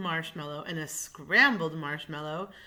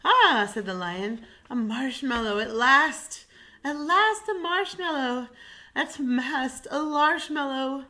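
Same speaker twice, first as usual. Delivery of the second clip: high and loud, overjoyed; finally gets his treat, much higher and louder; excited lion; 8 semitones higher, 7 dB louder than usual. Acted. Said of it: "how nervous and excited he was".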